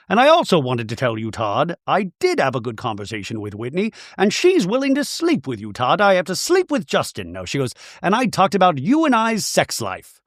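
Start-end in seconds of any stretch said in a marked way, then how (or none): 0.1-7.3 pleading wife. Retold or imitated. Voicing Bronwyn pleading with Todd. 8.0-10.2 high-pitched put-on wife voice; mock insistent wife. Voicing Bronwyn to her husband.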